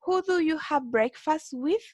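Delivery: measured, deliberate English question; slow model reading. Shown as a demonstration. Teacher re-reading the example to show the final preposition, slow. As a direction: lay out each word again for the learners. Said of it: "como en este caso".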